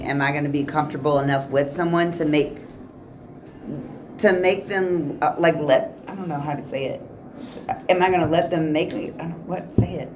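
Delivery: high, words drifting and halting; stoner. Real, not acted. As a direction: lose the thread, stoned and fumbling. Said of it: "I'm kinda high right now".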